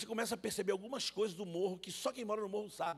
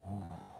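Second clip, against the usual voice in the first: hushing sound; 12 semitones lower, 5 dB quieter than usual. Acted. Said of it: "pediu silêncio".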